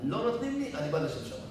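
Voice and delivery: quoting his rule. Retold or imitated. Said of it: "יש לו כלל".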